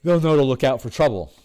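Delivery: words stretched through a real yawn; mid-yawn speech. Real, not acted. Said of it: "Sorry, I'm, I'm yawning".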